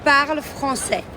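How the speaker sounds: slow, clear "Je parle français"; slow teaching voice. Shown as a demonstration. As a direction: spell it out slowly for a child. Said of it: "Tu dis".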